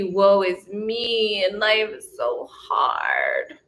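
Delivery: slow mock woe building to wailing cries of no; moaning Myrtle whine. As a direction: ham up a self-pitying victim who ends in sobbing shouts. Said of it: "Moaning Myrtle likes to be the victim".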